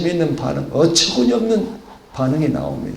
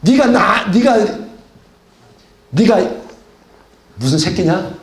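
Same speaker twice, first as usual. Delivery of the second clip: mock scolding; 4 semitones higher than usual. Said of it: "따귀를 갖다 때리겠어요".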